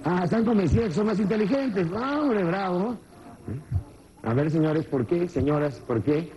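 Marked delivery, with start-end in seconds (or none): 2.0-3.0 mock praise. Mocking the men's claim.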